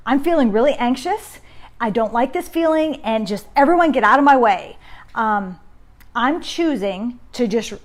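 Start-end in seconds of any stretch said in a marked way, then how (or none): 0.1-4.8 higher and louder, building to a snap at the end; mock frazzled outburst. Anxious parent warning family to clear out, mock frazzled outburst. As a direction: act out an anxious parent losing patience. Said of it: "Now you might say".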